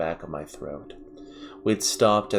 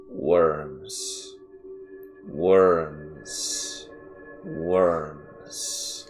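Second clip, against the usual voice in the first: lightly voiced manic old man; a hint of a frantic grandpa chanting; violent repeating; much slower than usual. A narrator's reading. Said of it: "repeating the same words so violently".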